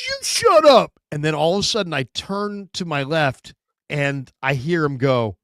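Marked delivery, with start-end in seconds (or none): 0.1-0.9 high, loud quarrelling yell; acted-out heated retort; mock angry comeback. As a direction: throw it back like a squabbling brawler.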